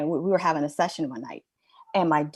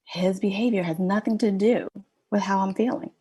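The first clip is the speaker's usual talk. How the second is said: realization; 3 dB louder than usual. Retold or imitated. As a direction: let the epiphany burst out. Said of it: "I was like".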